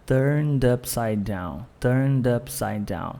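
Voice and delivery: "Turned upside down" slowly, all one block; linked as one block. Shown as a demonstration. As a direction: glide from turned straight into upside. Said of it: "tudo isso aqui é um bloco".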